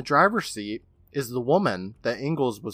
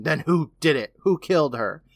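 mildly heated, higher questioning; mock interrogation; 4 semitones higher, 4 dB louder than usual. Retelling Billy shaking him, mock demanding. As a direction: demand answers with a touch of force. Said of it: "Billy shakes him, asking".

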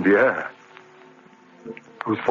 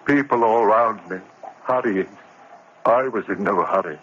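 stunned, empty remorse; a touch of numb grief; numb confession; 4 semitones lower than usual. Acted. Narrator numb after killing.

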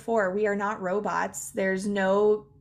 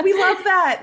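mock delight; 11 semitones higher, 9 dB louder than usual. Mock delight at vague answer.

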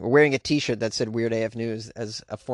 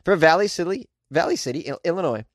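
tongue-twister attempt; 5 semitones higher, 3 dB louder than usual. Shown as a demonstration. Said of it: "That's hard to say, man".

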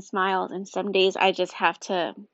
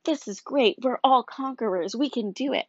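pitched-up mock pep talk; mock optimism; 5 semitones higher than usual. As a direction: chirp it higher, like a forced morning rally. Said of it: "wake up and say".

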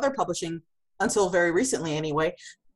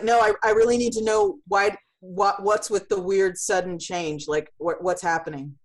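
pleading. Retold or imitated. Asking the driver where the sudden turn leads, urgently pleading. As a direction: press them for an answer. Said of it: "And I'm going, like".

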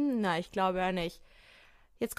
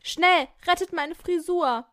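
panicked plea; 7 semitones higher, 5 dB louder, slower than usual. Acted. Panicked model in lift.

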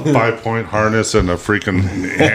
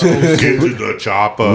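Arnold Schwarzenegger impression; slower than usual. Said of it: "the whole Arnold Schwarzenegger".

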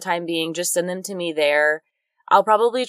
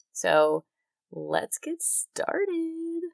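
ominous; 10 semitones higher, 7 dB quieter, much slower than usual. Acted. Ominous episode intro.

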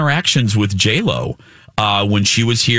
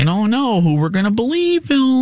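playful teasing; 10 semitones higher than usual. Acted.

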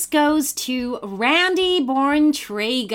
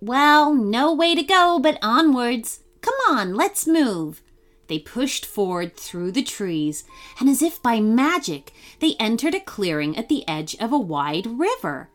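put-on lively storybook reading for kids; bright children's story read; story narration. A narrator's reading. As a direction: tell it like a bedtime story. Reads a kids' story aloud.

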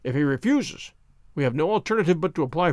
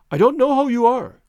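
higher, louder alarmed cry; a startled man crying out; cried out; 7 semitones higher, 6 dB louder than usual. A narrator's reading. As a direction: blurt it out, startled and shaken. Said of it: "he cried".

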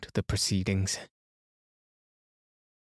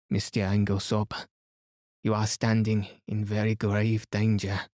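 lightly voiced French-accented detective, grave; Poirot. Poirot warning Inglethorpe of danger, gravely accented.

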